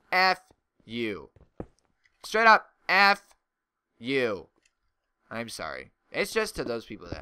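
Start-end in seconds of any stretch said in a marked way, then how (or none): 0.1-4.5 angry outburst. Real, not acted. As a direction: blow up at them. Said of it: "sometimes I just get so angry".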